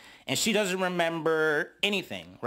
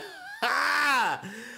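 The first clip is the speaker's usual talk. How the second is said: high, squealing burst of laughter; 9 semitones higher than usual. Real, not acted. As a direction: crack up at the joke. Anna's joke amuses narrator.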